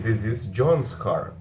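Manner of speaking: slow, careful teacher model of "This is John's car."; unhurried classroom demo; slow model sentence. Shown as a demonstration. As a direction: spell out each word slowly for learners. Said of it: "com apóstrofo S".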